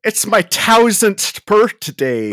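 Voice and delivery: high, slow mock Irish leprechaun; hard-T Irish accent. Host quotes the leprechaun movie, exaggerated hard-T Irish accent. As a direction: hit every T hard in a put-on Irish accent. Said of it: "never heard an Irish person hit the T's that hard".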